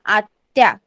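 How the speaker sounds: आत्या said in two parts, आत् then या; pronunciation demo. Shown as a demonstration. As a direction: model आत्या carefully, with a break at the त्. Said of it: "कैसे pronounce करेंगे हम".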